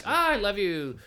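casual love you. Retold or imitated. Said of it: "you can tell by the tone".

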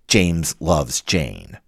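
James loves Jane spoken slowly; slow dictation. Shown as a demonstration. Showing what the niece copies, slow and deliberate. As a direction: read out the copied sentence slowly. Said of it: "And so they write".

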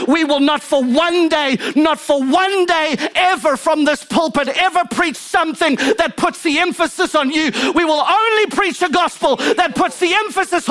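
rallying, insistent sermon, pitch climbing with each repeat; campaign-speech preaching. Real, not acted. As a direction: build it like a stump speech from the pulpit. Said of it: "like I'm on a political campaign".

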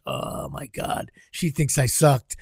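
hushed, drawn-out dismay; sinking inner thought. Retold or imitated. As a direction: say it low and slow, as a thought retold. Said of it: "inside, I'm starting to feel like".

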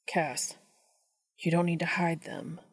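soft, half-whispered reassurance; softly. Acted. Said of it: "Dean says softly".

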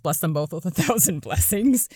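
holding back laughter; words cracking into a laugh. Real, not acted. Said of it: "I can't say that with a straight face".

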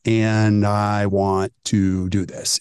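slow, drawn-out patient quote, slightly low; deliberate decision. Retold or imitated. Patient deciding on treatment, slow and deliberate. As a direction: stretch it out as a considered yes.

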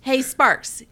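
loud, mock-angry taunts with rising pitch; hammed-up taunting. Rival picking a fight for the reality show cameras, loud mock taunts.

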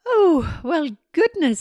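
high, loud witch voice; a bright surprised old witch; squeaky little witch greeting an old friend; little witch exclaiming. A narrator's reading. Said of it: "said the little witch".

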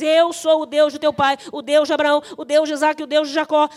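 measured, forceful pulpit recitation; solemn proclamation. Acted. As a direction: proclaim each title with weight. Proclaims God's words from scripture.

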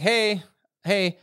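half-hearted yell, pleading for peace; mock yelling goblin. Goblin approaching the resting party, mock yelling for peace. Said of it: "starts yelling and was like".

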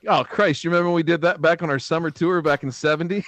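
hammed-up rock star voice; lightly voiced aging rocker; imitating two rock stars. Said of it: "we're probably like".

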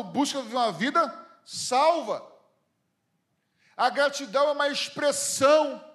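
fervent sermon climax, words stretched; preaching at full force. Acted. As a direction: drive each line home to the congregation. Preaching on gratitude and salvation.

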